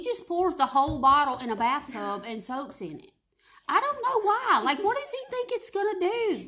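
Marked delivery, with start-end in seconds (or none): 3.7-6.5 laughing. Real, not acted. Laughing at daddy's bathtub Lysol.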